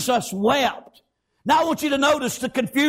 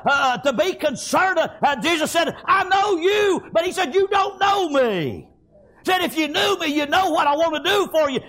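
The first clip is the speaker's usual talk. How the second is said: impassioned, raised-pitch sermon delivery; fervent preaching; 2 semitones higher than usual. Acted. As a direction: preach it hard, stretching the key words. Preaches at full force.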